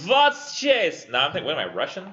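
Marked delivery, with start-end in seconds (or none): 0.1-1.1 put-on high, loud stab at a German accent; attempted German accent. Student trying a German accent for the chased woman, hammed-up. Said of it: "I don't know a German accent".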